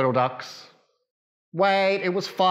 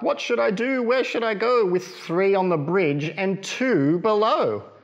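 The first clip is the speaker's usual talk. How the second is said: higher worried mother duck voice; 5 semitones higher than usual. Acted. Mother duck to her ducklings, worried and high. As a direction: fret like a flustered mother duck. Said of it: "quacked Mother Duck".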